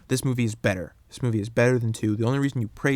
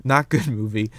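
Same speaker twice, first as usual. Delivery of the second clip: laughing; 5 dB louder than usual. Real, not acted. Laughs correcting own slip.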